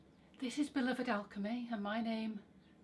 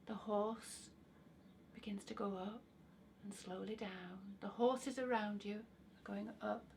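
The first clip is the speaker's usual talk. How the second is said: calm guiding voice with long pauses; guided visualization. Acted. Guide leading listeners onto an imagined carousel, guided visualization. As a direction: lead them gently into the imagined scene.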